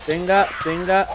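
sudden high yelp; startled cry. Real, not acted. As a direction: yelp as if burned. Minecraft gamer on fire, panics. (grito agudo de susto)

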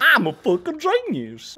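slow deadpan sarcasm; dry sarcasm. Real, not acted. Gamer mocking himself after a blunder, slow sarcasm. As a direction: call yourself a genius, meaning idiot.

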